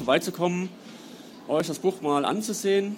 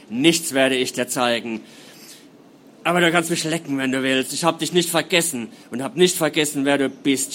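loud, venomous snarl; nightmare spirit; 3 semitones lower, 4 dB louder than usual. Acted. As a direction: spit every word at him. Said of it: "spie sie ihm entgegen".

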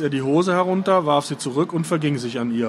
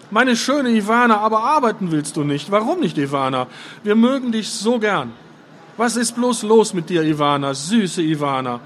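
Fjodor voice; 6 semitones higher than usual. A narrator's reading. Fjodor coaxing Ivana.

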